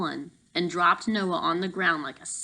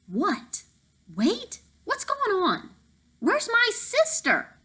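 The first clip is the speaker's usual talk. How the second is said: high, slow, frantic yell; slower than usual. Acted. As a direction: cry out in panic for his sister. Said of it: "Noah yelled".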